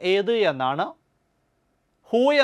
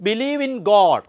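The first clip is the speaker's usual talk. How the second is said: slow dictation; 4 dB louder, much slower than usual. Shown as a demonstration. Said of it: "teacher gives meaning slowly".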